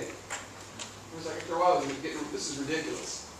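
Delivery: breathless whisper, almost no voice; whispered aside. Real, not acted. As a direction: mutter it under your breath, fed up. Exasperated aside about the calls.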